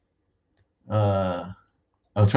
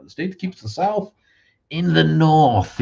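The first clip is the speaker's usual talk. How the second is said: much higher put-on voice, stretched out slow at the end; mock grand slogan; 9 semitones higher, 5 dB louder than usual. Shown as a demonstration. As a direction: announce it like a grand state motto. Repeats his Indiana line, performed.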